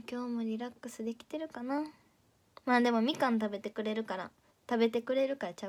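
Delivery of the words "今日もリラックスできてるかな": soft musing. Shown as a demonstration.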